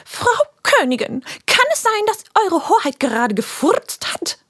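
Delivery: high, mock-formal question; mock-formal teacher. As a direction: ask with pompous politeness. Teacher role questions queen.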